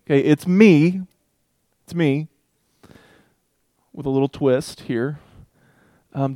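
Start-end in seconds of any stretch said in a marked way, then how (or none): 0.0-2.3 higher, easy-going reassuring; calm them down casually; Jesus reassuring the scared disciples, breezy; casual reassurance. Retold or imitated. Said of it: "he kinda goes".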